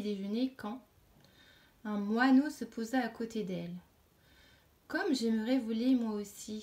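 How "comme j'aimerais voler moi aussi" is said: a mild eager exclamation, a touch louder on Comme; exclaimed wish. Acted. Caterpillar exclaims her wish to the sparrow, mildly excited. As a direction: lift the wish out with light excitement. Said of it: "s'exclama la chenille".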